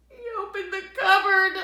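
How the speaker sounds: rising, loud, fast suspense. A narrator's reading. Reading to kids, big suspenseful reveal. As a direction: build the tension on cupboard.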